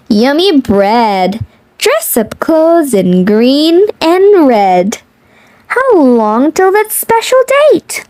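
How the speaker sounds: lilting picture-book read-aloud; reading to children. Acted.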